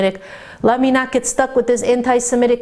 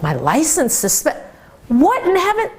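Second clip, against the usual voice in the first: shocked outburst; 6 semitones higher than usual. Retold or imitated. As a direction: let the shock break out on "heaven". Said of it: "He clearly saw that I was in shock".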